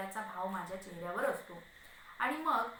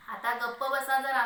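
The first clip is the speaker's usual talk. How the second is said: sharp scolding; 2 semitones higher, 8 dB louder than usual. A narrator's reading. Wife hushing her yelling husband, sharp scolding. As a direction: raise the voice to silence him. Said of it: "पुन्हा तिचा सूर खाली येतो".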